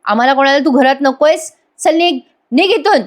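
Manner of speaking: a brother ordering him out; retold shouting. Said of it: "Ashwin ओरडून म्हणतो". (ओरडून हाकलल्याची नक्कल)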